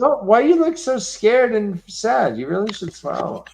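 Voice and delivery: creepy catcaller. Retold or imitated. Imitating a creep telling a woman to smile. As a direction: whine it like a pushy street creep. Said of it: "those gross guys that are like".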